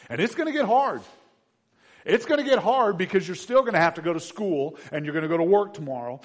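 emphatic preacher's build; impassioned preaching. Acted. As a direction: press the warning home forcefully. Preaches at full force.

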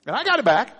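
excited cry of triumph; triumphant. Retold or imitated. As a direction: shout it like you just saved the car. Retelling skid, triumphant then relieved.

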